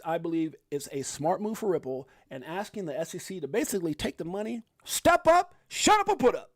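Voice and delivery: quoting with rising fervor; excited quote. Retold or imitated. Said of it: "So he says".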